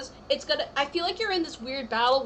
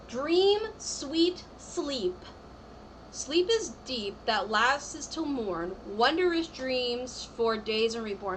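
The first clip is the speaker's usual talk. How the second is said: slow, measured incantation read; spell card reading; much slower than usual. Acted. Reader intoning a tarot card's spell to the viewer, slowly.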